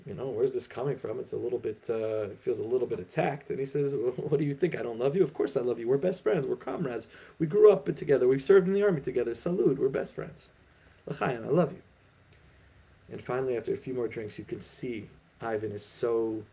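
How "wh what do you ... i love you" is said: cornered, defensive. Acted. Cornered Igor insists to Ivan that he loves him, defensively. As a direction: protest too much, feeling attacked. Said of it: "Igor is feeling a little bit cornered".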